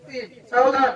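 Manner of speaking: loud call to attention; loud parade-ground command; drill command. Pretend. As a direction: order players to attention, loudly. Host calls drill command to players.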